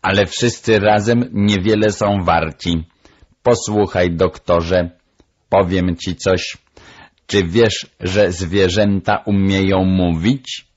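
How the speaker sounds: know-it-all bird character; persuasive parrot. Acted. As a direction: let the parrot share a secret. Narrator voices the parrot.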